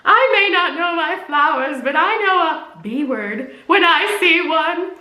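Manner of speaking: a touch of a smug comeback; lightly voiced movie man. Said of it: "he goes".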